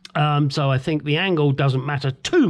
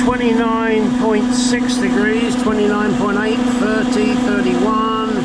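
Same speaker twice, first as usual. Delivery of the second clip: strained voice from under a car; lying under a car; 4 semitones higher than usual. Real, not acted. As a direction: talk flat on your back under a car. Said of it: "so now I'm under the car".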